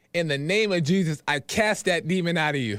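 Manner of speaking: ordinary talk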